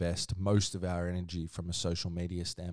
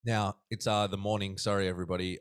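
talking between sips of coffee; sipping coffee mid-sentence; while sipping a drink. Real, not acted. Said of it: "hear me sipping away there".

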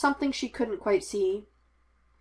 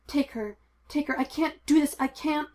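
rising panic, higher; panicked plea; 6 semitones higher than usual. A narrator's reading. Obi-Wan begging Anakin to take the baby, panicked. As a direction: beg them to take her, voice climbing.

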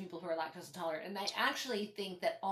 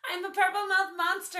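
monster voice; 11 semitones higher, 7 dB louder than usual. Pretend. Playful monster after purple tongue.

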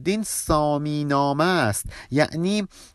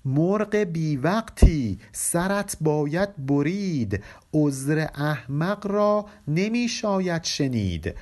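slow, measured verse reading; poem recitation; slower than usual. Acted. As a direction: chant each line of the couplet slowly. (خوانش آهسته و موزون شعر)

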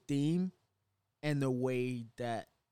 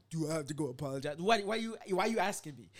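mock incredulous God; 3 semitones higher than usual. Holy Spirit scolding cohost, mock incredulous. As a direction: throw the question back in disbelief. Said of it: "he's like".

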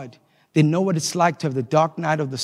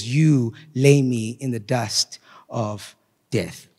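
slow scripture reading. Acted. Preacher reads Psalm 22 slowly to the congregation, grave. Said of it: "I wanna read it slowly to you".

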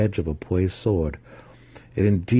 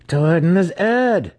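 slow, high, loud snarl; drawn-out raised snarl; 11 semitones higher, 5 dB louder, slower than usual. A narrator's reading. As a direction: snarl it with gleeful menace. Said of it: "she snarled".

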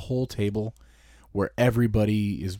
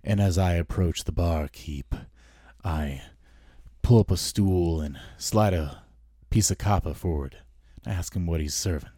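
lightly voiced character, low and measured; in-character first person; 4 semitones lower than usual. Shown as a demonstration. Player approaching the barkeep, in-character voice. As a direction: narrate your own moves in character, pitch slightly dropped. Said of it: "I'll do an accent, and I'll talk from the first person".

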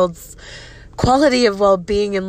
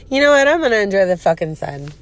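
defiant outburst; faster than usual. Real, not acted. Defiant reply to his text.

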